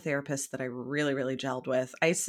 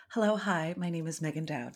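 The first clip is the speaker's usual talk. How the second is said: polished airline greeting voice; smooth, courteous cabin announcement; flight attendant voice; 3 dB quieter than usual. Shown as a demonstration. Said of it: "This is my, uh, flight attendant voice".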